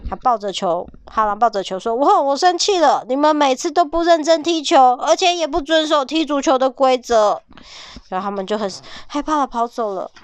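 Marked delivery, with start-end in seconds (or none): 2.0-7.4 higher, louder scolding wolf; angry wolf. Acted. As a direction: tell them off like a cross wolf. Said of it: "哈狼好凶哦".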